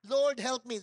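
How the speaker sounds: loud cry for help like a drowning man; desperate cry. Retold or imitated. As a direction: call out as if sinking in the water. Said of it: "Parang si Peter nung lumulubog siya sa tubig". (malakas na sigaw ng paghingi ng tulong)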